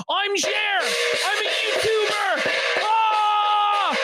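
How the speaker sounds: mocking Jer. Mocks Jer's self-pity in his voice.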